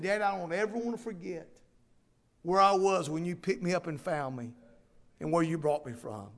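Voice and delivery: soft, falling, sincere reply; a child's confession, gently voiced by the storyteller; heartfelt answer.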